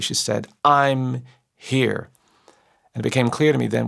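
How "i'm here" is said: drawn-out, emphatic "I'm here", mildly raised; retold loud declaration. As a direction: quote her firm announcement, stretching both words. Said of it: "in a very loud voice".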